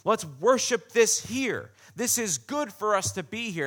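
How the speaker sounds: mildly enthusiastic acted plea to his master; eager Peter. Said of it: "Peter goes".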